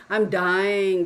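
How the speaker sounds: mock dramatic howl. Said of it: "type of a howl".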